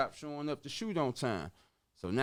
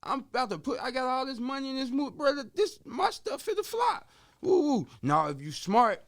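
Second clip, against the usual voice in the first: much higher, louder, rushing the warning; retold heated warning; 10 semitones higher, 5 dB louder than usual. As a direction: warn the partner the scandal will blow up. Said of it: "I'm like".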